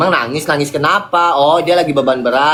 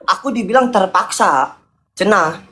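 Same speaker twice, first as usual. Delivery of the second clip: a higher voice, laughing through the sorry; laughing apology; 4 semitones higher than usual. Real, not acted. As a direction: apologize while chuckling, not quite serious. Apologizing amid partner's complaint.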